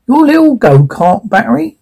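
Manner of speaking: put-on wobbly Russian accent, slipping; bad Russian accent on a taunt. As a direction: inconsistent Russian villain accent. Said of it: "pick an accent and stick with it".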